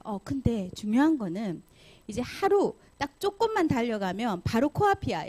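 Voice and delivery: ordinary delivery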